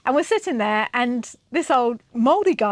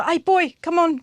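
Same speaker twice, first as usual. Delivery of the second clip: put-on higher-pitched call to the boy; calling over; 6 semitones higher than usual. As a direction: imitate a grandad calling his grandson. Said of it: "So he calls over".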